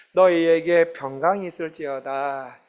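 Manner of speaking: gentle voice. Acted. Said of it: "그 온유한 음성을".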